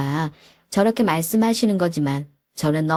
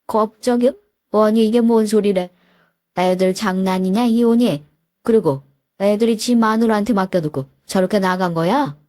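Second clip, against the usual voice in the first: indignant father; 2 semitones higher than usual. Retold or imitated. Father shocked by divorce news.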